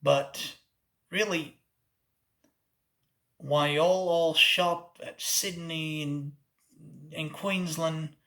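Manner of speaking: Australian accent. Shown as a demonstration. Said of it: "that was the first accent I ever learned and mastered".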